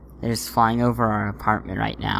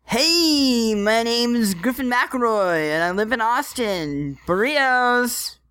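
Griffin impression; 11 semitones higher, slower than usual. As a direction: shriek it out like Griffin. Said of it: "should I try again".

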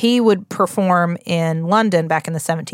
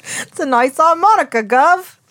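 much higher hammed-up Cockney accent; 9 semitones higher, 4 dB louder than usual. Host doing a mock Cockney accent about the glass harmonica. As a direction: ham up a Cockney street seller. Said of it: "There's my British accent".

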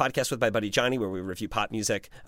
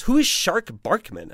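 puzzled manager; 8 semitones higher, slower than usual. Retold or imitated. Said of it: "And he goes".

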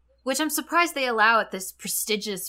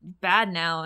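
very slow, drawn-out mock lament; deadpan kids; 4 semitones lower, 3 dB quieter, much slower than usual. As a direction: drag it out like a dull chorus. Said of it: "the kids have to be like".

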